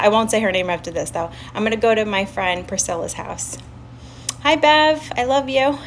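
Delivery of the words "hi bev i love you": affectionate greeting. Real, not acted. Greets a viewer in live chat.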